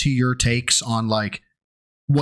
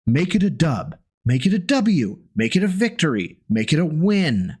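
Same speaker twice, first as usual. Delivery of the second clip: mock explaining. Shown as a demonstration. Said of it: "break this down for you".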